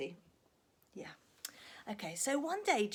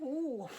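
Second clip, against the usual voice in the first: wind noise; 2 semitones higher than usual. Acted. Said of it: "And the wind went".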